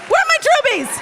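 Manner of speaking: high, loud call stressing where; calling out again. Real, not acted. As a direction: punch where this time. Calling out to crowd.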